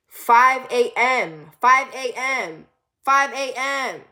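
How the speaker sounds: very slow, drawn-out repetition; emphatic disbelief. Real, not acted. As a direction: stretch each one out for emphasis. Incredulous repetition of the party's end time.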